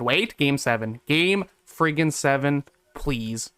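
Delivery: normal talking voice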